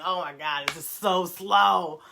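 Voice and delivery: acted inner complaint, dragging on "so slow"; exasperated slowness. Voicing own thoughts about slowing down, mock exasperated drag. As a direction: draw out the last words. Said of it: "for me, it just feels like".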